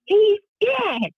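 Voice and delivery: high, offhand imitation of a callous man; David Knight's reply. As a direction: throw the line off in a high, cold voice. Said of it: "and he goes".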